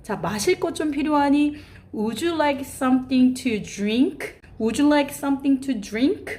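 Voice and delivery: slow, careful model question; slow polite offer. Shown as a demonstration. Teacher offering a child something to eat or drink, slow. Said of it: "예를 들어서".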